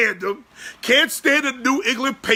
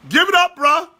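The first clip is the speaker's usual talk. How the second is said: emphatic repeat; 5 semitones higher than usual. Real, not acted.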